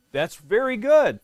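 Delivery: ordinary delivery, nothing marked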